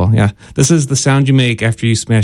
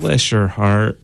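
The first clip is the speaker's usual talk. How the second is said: southern put-down; 4 semitones lower, 3 dB quieter, slower than usual. Retold or imitated. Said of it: "when somebody says".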